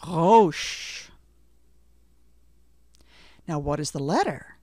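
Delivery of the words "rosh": Rosh with a throaty back r, louder; guttural Rosh. Shown as a demonstration. Teacher demonstrating Rosh for learners to repeat. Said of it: "Listen carefully and try to repeat the word".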